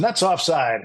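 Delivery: mock announcer relaying a prompt; on-air echo.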